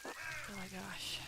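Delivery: talking through a stuffy nose; blocked nose from allergies. Real, not acted. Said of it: "if I sound so stuffy tonight".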